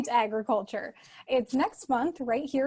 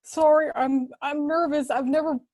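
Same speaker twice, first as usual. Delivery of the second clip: lightly voiced announcer tone; can't shake the radio voice; stuck radio voice; 2 semitones higher, 4 dB louder than usual. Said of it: "I can't get my real voice back".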